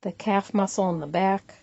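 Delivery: unhurried body-scan guidance with long pauses between phrases; guided meditation. Acted. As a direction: calmly lead them through it, leaving room to breathe.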